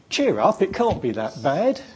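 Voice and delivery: high, chirpy mock encouragement; mock cheery advice. Mocking what depressed people hear, cheery. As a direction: mimic a breezy well-meaning friend. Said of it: "what do you not want to hear".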